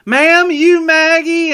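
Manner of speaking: high, loud, slow waiter asking; waiter on the phone. Retold or imitated. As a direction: mimic the confused server. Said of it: "you hear 'em on the phone".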